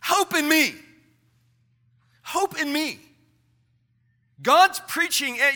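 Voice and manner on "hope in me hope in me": voice of God. Acted. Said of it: "God's telling you".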